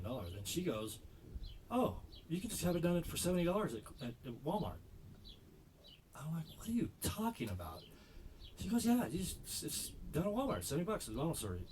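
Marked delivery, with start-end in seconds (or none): 1.7-11.7 lightly voiced casual girl, higher; a hint of a chirpy young woman; breezy girl. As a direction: toss it off like it's obvious. Girl casually suggesting Walmart.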